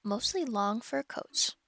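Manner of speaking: measured, clear audiobook reading; steady storybook narrator; story narration. A narrator's reading. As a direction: read the story aloud to listeners. Resumes reading the novel.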